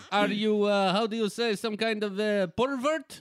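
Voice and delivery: high, slow coy foreign voice; simpering. Retold or imitated. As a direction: play a coy foreign ingenue.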